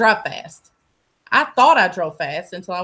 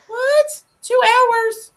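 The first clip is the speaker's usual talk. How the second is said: shocked disbelief; 13 semitones higher, much slower than usual. Retold or imitated. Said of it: "I was like".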